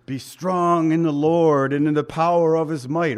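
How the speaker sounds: a self-help mantra said on repeat; mock mantra. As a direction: parrot the verse like a slogan. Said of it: "walk around and say".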